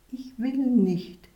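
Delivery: slow, high, reluctant little plea; feebly refuse, drawn out and high; weak murmur. A narrator's reading. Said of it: "murmelte er schwach".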